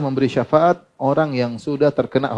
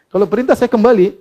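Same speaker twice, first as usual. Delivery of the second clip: Barirah; 8 semitones higher, 5 dB louder than usual. Retold or imitated. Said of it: "Barirah bertanya".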